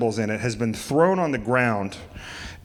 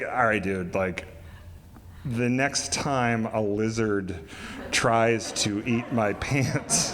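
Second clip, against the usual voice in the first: lower, softer, slow sarcastic drawl; sheepish reply; 3 semitones lower, 5 dB quieter, slower than usual. Retold or imitated. Jeff answering Craig's lecture, slow sheepish sarcasm.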